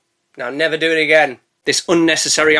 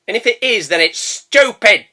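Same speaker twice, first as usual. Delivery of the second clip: exasperated; 4 semitones higher than usual. Real, not acted. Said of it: "that is not a real thing".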